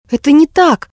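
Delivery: high, loud protest; indignant exclamation. Acted. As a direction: cry out in denial. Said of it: "воскликнула Неверфелл".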